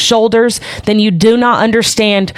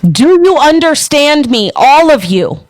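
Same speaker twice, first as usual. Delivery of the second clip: higher, forceful rant; real angry yelling; 3 semitones higher than usual. Real, not acted. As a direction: keep yelling, refusing to be silenced. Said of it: "Would you like me to be fucking louder for you?".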